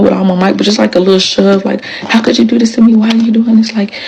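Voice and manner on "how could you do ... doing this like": pleading. Retold or imitated. Pleading during the fight.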